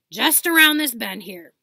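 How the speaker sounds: very loud call. Acted. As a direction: shout ahead. Hagrid calling.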